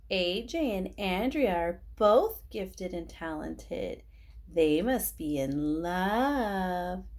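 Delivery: slow singsong taunt; teasing. Acted. Boy mocking two classmates as lovebirds, slow taunt. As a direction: drag it out to mock them.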